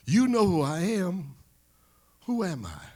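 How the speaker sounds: high, loud boxer's voice; excited champion fishing for his name; champion's eager prompt. Acted. Ali answers the old man.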